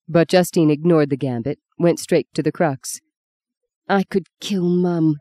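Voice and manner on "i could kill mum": slow, tight mild anger; through her teeth. Acted. Justine furious at her mother, slow and clenched. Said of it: "she said through her teeth".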